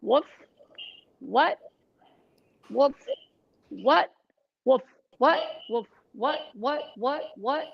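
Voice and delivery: barked woofs turning into words; rising barked whats; woof into speech. Shown as a demonstration. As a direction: bark then speak. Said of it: "then you can go into sound".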